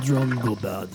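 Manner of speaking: put-on Russian, broken English; hammed-up Russian; mock Russian accent. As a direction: imitate a Russian villain's accent. Playing the Russian villain.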